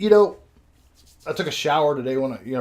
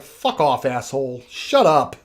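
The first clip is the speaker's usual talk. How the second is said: louder mock snarl at the nurse; drugged patient telling off the nurse, louder; retold outburst; 7 dB louder, slower than usual. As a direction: lash out like a belligerent drunk. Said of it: "the outburst".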